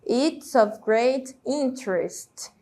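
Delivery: "interest" as in-trest in a slow sentence; slowly, joining T and R in "interest"; silent E. Shown as a demonstration. Teacher repeats example, slow, "interest" without its E. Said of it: "É como se essa letra E não existisse".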